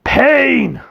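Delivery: monster in pain. Retold or imitated. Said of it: "And he's like".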